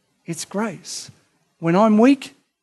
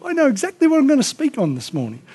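mock confident pastor; 8 semitones higher, faster than usual. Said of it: "pastors wake up some weeks and go".

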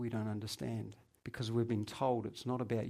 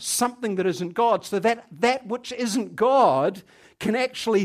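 louder, higher, fervent sermon voice; full-force preaching; 9 semitones higher, 10 dB louder than usual. Acted. Preacher proclaiming God as servant to congregation, full-force preaching. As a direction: preach it out to the back pews.

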